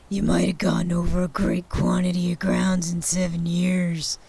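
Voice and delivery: put-on deferential old man whisper; whispered Scrooge. Scrooge whispers humbly to Jacob's ghost.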